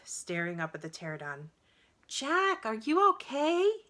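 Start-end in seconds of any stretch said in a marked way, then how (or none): 2.1-3.8 high, loud call across the distance; loud, high worried call. A narrator's reading. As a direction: call out to your brother below. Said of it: "Annie called".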